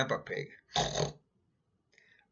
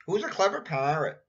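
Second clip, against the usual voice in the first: parrot voice; 5 semitones higher, 4 dB louder than usual. Acted. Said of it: "Polly is very good at repeating".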